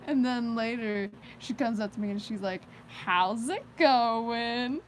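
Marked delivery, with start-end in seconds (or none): 2.9-4.8 imitating her tone. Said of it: "in that exact tone of voice".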